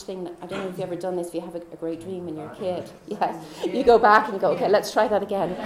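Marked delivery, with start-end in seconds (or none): 4.5-5.6 giggly playful. Retold or imitated. Childlike wish to redo the dream.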